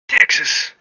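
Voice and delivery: hushed conspiratorial whisper; whispered secret. Acted. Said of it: "like it's a secret".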